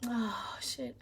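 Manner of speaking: under her breath, soft and quick; a whispered slip she hides from the viewers; whispered curse. Real, not acted.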